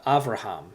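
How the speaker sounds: Avraham with a v, ahv-rah-HAHM; Hebrew pronunciation. Shown as a demonstration. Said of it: "is how you pronounce it in Hebrew".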